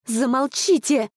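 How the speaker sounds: high sharp cry to silence them; shout. Acted. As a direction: yell at the birds to stop. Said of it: "закричала моя сестра". (резкий крик)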